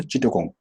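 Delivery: চিটাগং said "Chittagong" for the Bengali name; Englishmen's pronunciation. Retold or imitated. Teacher showing what Englishmen say for Chattogram, anglicised pronunciation. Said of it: "তারা বলে".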